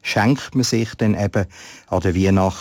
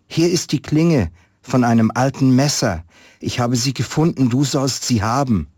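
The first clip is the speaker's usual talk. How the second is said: put-on eager boy; 5 semitones higher than usual. Boy offers blade eagerly.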